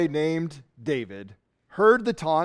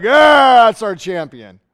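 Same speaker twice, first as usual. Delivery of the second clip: cheering crowd; 3 semitones higher, 9 dB louder than usual. Retold or imitated. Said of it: "all the Philistines are like".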